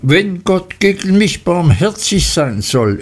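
scharf und höher erwidert; höhnisch zurückgeworfen; heftig. A narrator's reading. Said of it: "entgegnete die andere heftig". (Rosa schleudert Emlys Worte heftig zurück)

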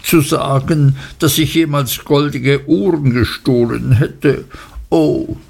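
a touch of injured complaint; mild girlish reproach; hurt young wife. Acted. Dora's hurt reply.

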